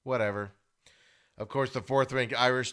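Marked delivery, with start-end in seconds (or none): 0.0-0.5 mock indifferent shrug. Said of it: "you're just setting your team up for".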